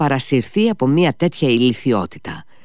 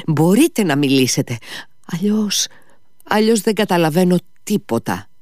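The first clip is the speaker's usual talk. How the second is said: higher, urgent pleading; pleading Mitya; 5 semitones higher than usual. Acted. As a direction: beg him to understand. Mitya pleads with drunk peasant.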